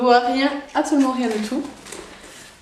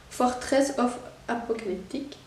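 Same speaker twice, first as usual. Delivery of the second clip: English title in a French accent; heavy French accent; 2 semitones higher, 4 dB quieter than usual. Real, not acted. Unboxer reading out a manga title, French-accented English. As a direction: read English with a francophone Belgian accent. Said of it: "avec mon accent de malade".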